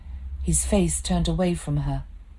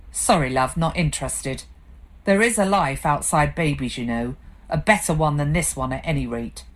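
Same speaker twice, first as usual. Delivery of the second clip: bitter. Acted. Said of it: "he said bitterly".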